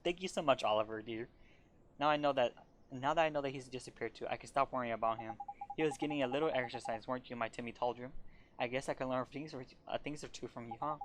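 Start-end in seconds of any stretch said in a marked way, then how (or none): 0.0-8.1 put-on doting old cat lady. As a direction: coo over the tired cat like a baby. Layla thanks Oliver.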